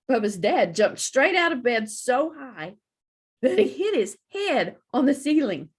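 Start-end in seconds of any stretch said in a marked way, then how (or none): none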